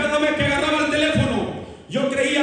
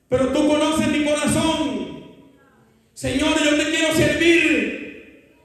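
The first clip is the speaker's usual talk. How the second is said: pleading prayer. Retold or imitated. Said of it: "le clamaba a Dios y le decía".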